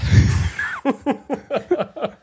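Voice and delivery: bursting out laughing; high burst of laughter. Real, not acted. Laughs at the punchline.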